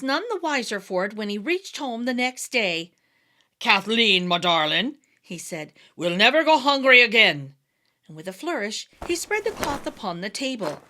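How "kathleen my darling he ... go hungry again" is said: louder, triumphant announcement; proud boast. A narrator's reading. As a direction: proclaim it with a flourish. Tim boasts to wife.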